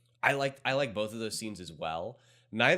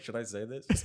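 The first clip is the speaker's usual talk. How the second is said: laughing self-quote. Retold or imitated. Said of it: "I was like".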